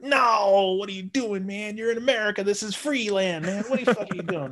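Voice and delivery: loud, high mock outrage; high, loud jeering disbelief; guys heckling. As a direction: yell it like a room of mates ribbing him. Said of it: "all the guys are like".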